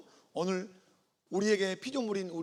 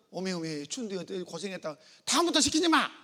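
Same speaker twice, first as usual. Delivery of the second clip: Jeolla mother, ending in a laughing shout; fond Jeolla mom bursting out at the end; 3 dB louder than usual. Retold or imitated. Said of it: "mother's other reaction in Jeolla".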